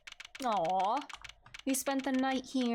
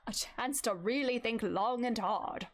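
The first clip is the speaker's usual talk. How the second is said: whispered through a yawn. Real, not acted. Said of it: "an old person voice, I yawn".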